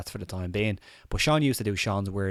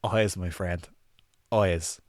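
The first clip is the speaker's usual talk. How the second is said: a lightly put-on accent leaning on "Eyes"; hint of an accent on "Eyes, my friend"; much slower than usual. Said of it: "Sorry about the accent".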